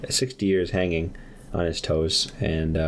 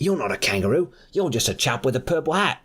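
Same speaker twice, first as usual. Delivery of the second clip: suspicious character; 7 semitones higher than usual. Acted. Character quoted in story.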